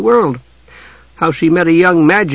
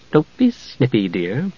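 spirited; 6 dB quieter, slower than usual. Acted. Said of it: "Jenna said spiritedly".

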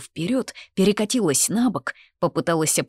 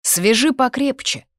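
raised, higher-pitched call; shouted order; 8 semitones higher, 5 dB louder than usual. A narrator's reading. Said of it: "крикнул другой". (окрик, громко и высоко)

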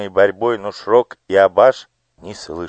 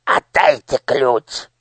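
slow, higher hard demand; 6 semitones higher, 3 dB louder, slower than usual. Acted. Minister grabbing the official, slow demand. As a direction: order him to hand it over. Fight over the key.

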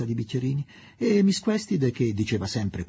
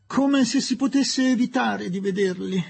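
higher, weary put-upon sigh; 11 semitones higher than usual. Acted. Mrs Leslie scoffs to the ladies, higher sighing complaint. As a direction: sigh it out as if it were obvious. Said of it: "sospirò missus Leslie".

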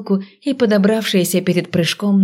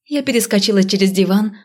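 plain reading voice

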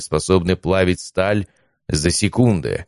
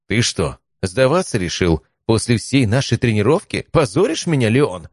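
mocking mentor voice; 5 semitones higher than usual. Mentor voice scolding in head.

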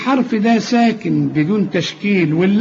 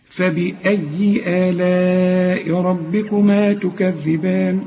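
slow melodic tajweed chant; Quran recitation; much slower than usual. Shown as a demonstration. Teacher recites the refrain slowly as a melody.

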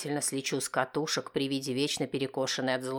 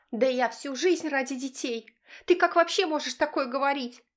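high, loud hysterical wife yell; hysterical shriek; 12 semitones higher, 4 dB louder than usual. Acted. Wife shrieking at husband, high and hysterical.

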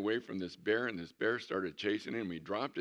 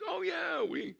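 eager yes; 4 dB louder, slower than usual. Retold or imitated. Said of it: "He goes".

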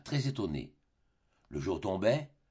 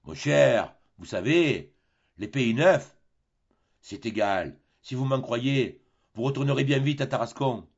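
sententious captain; 4 dB louder than usual. Acted. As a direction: lay down the lesson like a know-all sailor. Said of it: "un geste de philosophe".

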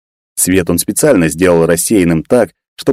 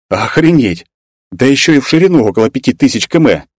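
higher-pitched amazed exclamation; astonished; 6 semitones higher than usual. A narrator's reading. Hero adds the map's width to the total, astonished. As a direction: marvel as the scale sinks in. Stunned by size of the map.

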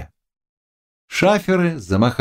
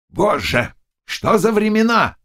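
plain reading voice

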